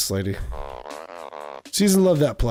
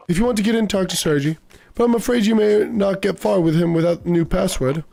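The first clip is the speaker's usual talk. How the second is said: lightly voiced, higher-pitched bookseller; a touch of the old-chap shopkeeper, pitched up; 4 semitones higher than usual. Bookseller advises a customer about the back room, lightly voiced old-chap character.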